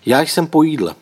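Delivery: forced calm. A narrator's reading. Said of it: "snažil se mluvit, jak nejklidněji dovedl".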